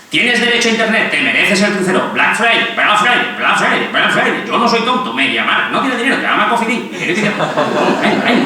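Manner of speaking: hammed-up pushy salesman, high and bright; mock voice of consumer society urging you to buy. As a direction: sell it like a cheesy commercial.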